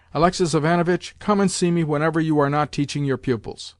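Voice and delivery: a lightly voiced domineering old lady; imperious grandmother. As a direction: boss the room, then beckon Alexis. Grandmother giving orders, then invitation.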